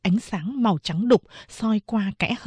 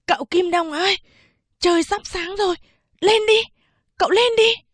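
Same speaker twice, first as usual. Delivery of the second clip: impatient urging; 10 semitones higher than usual. Acted. Servant boy hurrying his master before daybreak, high and impatient. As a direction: hurry him up before dawn. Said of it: "sốt ruột giục tôi".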